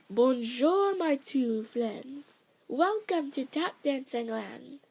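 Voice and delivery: light hint of a French accent, slowing on my two friends. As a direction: greet them like a French ballerina, accent only lightly put on. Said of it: "She then said it in a French accent".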